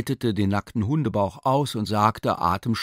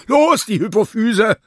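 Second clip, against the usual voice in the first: louder and higher, driving on; agitated shout; 12 semitones higher, 9 dB louder than usual. Acted. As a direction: push through the crisis loudly. Surgeon demands the gland.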